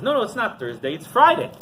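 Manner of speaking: acted stubborn insistence; insistent contradiction. Rabbi contradicts townspeople in story.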